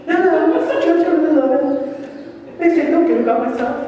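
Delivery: a churchgoer's jumpy high denial; nervous high voice, not owning it; voice up an octave. Retold or imitated. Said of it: "your voice goes up a whole other octave".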